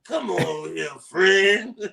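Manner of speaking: a lightly voiced creepy figure in the tunnel, luring; deep raspy voice. Teasing his co-host, playing the shadowy tunnel figure, mock creepy. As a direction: beckon like a shady stranger in a dark tunnel, half joking. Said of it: "I got that deep, raspy voice".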